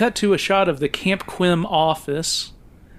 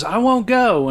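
higher-pitched mock protest; retold defiant refusal; 8 semitones higher, 3 dB louder than usual. Film reviewer retelling a daughter arguing with her father, mock defiance. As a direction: imitate an arguing daughter, mildly heated. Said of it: "a daughter arguing with her father".

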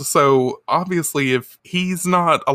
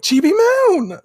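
mock anguished shout; 5 dB louder, slower than usual. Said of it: "Usagi's like".

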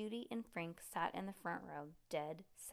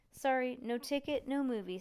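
stern ticket taker; 6 semitones higher, 8 dB louder than usual. Acted. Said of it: "said the ticket taker".

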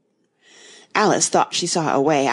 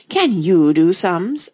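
slow, much louder rounding on her; sharp challenge; 2 semitones higher, 6 dB louder, slower than usual. A narrator's reading. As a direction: snap the question at her. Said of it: "turning suddenly on the White Queen".

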